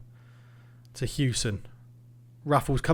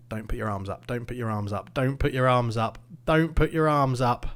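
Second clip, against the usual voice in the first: pleading; 3 semitones lower than usual. Real, not acted. Pleading at the screen during VAR.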